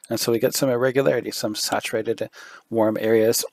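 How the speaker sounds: losing voice, hoarse and strained; a worn, hoarse voice. Real, not acted. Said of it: "Sorry, losing my voice".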